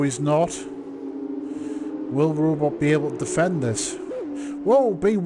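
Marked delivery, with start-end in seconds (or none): 4.6-5.2 surprised. Real, not acted. Car crashes into wall.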